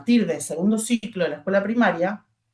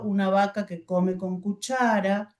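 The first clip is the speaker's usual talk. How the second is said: slow, pointing word by word; slow choral reading. Shown as a demonstration. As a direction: read slowly, then stop at the comma. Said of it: "Les vamos mostrando con el dedo".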